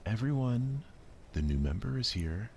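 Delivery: bright, loud call to the room; excited announcement. Acted. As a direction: announce the newcomer with glee. Sayori bursts in announcing.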